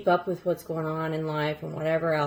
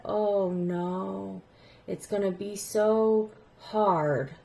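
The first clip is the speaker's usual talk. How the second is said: teary dismay; 3 dB quieter, much slower than usual. Retold or imitated. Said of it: "I started getting teary-eyed".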